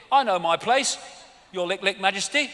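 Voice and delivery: hammed-up grovelling subject, shouted; mock servile subject. Mocking subjects bowing to royalty.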